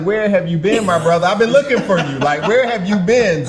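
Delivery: mock delighted reunion; playful excitement. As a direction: greet a long-lost brother, half joking. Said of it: "I'm like".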